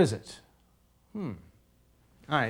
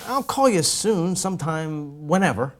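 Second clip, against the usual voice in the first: vague. Shown as a demonstration. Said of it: "when the words are too vague".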